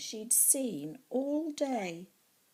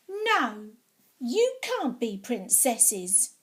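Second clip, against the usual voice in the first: bossy refusal; 6 dB louder, slower than usual. Acted. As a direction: stubbornly forbid it, slowly. Bossy child quarrelling.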